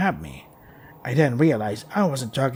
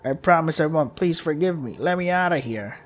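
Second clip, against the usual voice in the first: put-on pleading child; 3 semitones higher than usual. Child begs to be let out.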